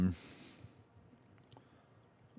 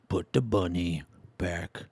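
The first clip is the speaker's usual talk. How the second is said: Cage movie line; 5 semitones lower, 8 dB quieter, slower than usual. Retold or imitated. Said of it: "He was, like, fucking Southern or something".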